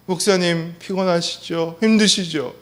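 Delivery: caring concern. Retold or imitated. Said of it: "바카스 하나 쓱 내밀면서".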